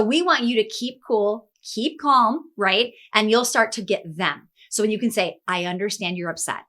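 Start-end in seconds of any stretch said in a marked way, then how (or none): 5.5-6.6 softer and lower, calming an upset employee; lower, quieter voice. Shown as a demonstration. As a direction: say it softly and low to calm someone down. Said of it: "like, lower voice, right? Quieter voice".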